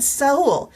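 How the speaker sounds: Saul said sa-OOL, two vowels, Spanish style; correct name. Retold or imitated. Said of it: "And he said".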